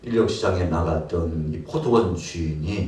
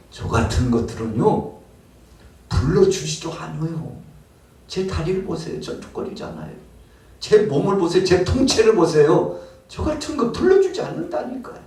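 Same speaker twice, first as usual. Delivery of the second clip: begging to be seen, louder each line; desperate plea; 8 semitones higher, 3 dB louder than usual. Acted. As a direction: pitch climbing higher, rising to a cry. Worker pleads, showing his lame leg. (절름발이 일꾼이 호소하며 점점 높아지는 목소리)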